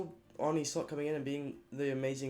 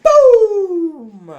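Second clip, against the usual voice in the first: huge high yell; triumphant shout; 12 semitones higher, 20 dB louder than usual. Real, not acted. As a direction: explode with a victory shout. Celebration climax.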